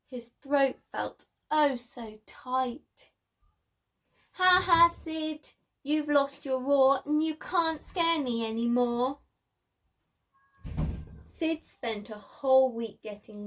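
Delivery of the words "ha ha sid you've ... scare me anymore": teasing taunt. Acted. Friend mocking Sid, lost roar.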